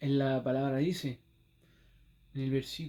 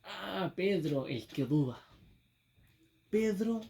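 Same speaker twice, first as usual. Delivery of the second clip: mocking condemnation; 2 semitones higher than usual. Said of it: "que lo condenan".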